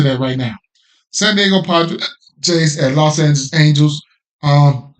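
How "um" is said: hiccuping mid-word; a hiccup breaks the sound. Real, not acted. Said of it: "excuse me, I got the hiccups".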